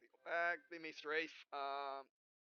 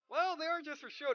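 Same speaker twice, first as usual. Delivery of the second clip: put-on lightly raised, louder girlish reply; mock heroine voice; 7 semitones higher, 7 dB louder than usual. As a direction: toss it off like the proud heroine.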